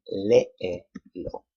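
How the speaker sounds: léelo slowed, LÉ held; stress on first E. Shown as a demonstration. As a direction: stretch léelo, leaning on the first E. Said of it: "Emphasis is on the third to the last syllable".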